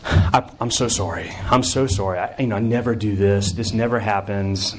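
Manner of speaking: a hint of a flustered student saying sorry; mock apologetic crier. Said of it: "that's when the apologies start to come".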